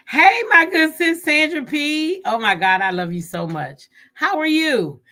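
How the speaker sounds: high, loud, delighted hello; gushing, high-pitched welcome; excited greeting. Real, not acted. Greeting a friend joining the stream.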